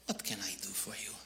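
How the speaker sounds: soft, breathy whispered greeting; lightly voiced clerk, whispering; whispered cashier. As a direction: hush it like a shy clerk. Cashier greeting him, quoted.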